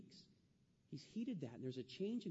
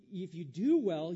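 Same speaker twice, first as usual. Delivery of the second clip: loud, slow and emphatic; forceful preaching; 2 semitones higher, 11 dB louder, slower than usual. Acted. The pastor drives verse seven home to the church, loud and slow. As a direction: proclaim it to the back row.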